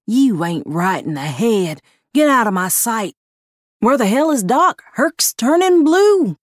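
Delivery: rising angry yell, high and loud; furious yelling. Acted. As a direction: spit the words in fury, climbing to a shriek. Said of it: "red-faced and spitting".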